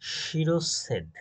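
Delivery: slowly drawn out শিরচ্ছেদ, each syllable held; slow spelling word. Shown as a demonstration. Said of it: "দেখেন".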